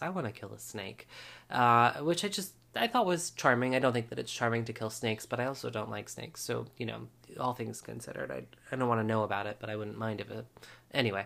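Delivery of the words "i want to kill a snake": muttered under the breath, quieter. Retelling a quiet aside said to Paris, imitating someone saying it under her breath. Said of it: "says under her breath to Paris".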